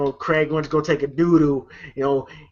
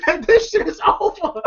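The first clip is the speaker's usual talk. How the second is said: much higher, slow, hammed-up threat with a laugh; slow mock threat; slower than usual. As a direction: stretch each word, high and laughing, playing the pimp. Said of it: "They go".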